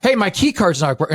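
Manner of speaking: retold front-desk gripe, anger held back; mildly angry. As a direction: open with a firm, mildly irked complaint. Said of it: "And I'm all angry".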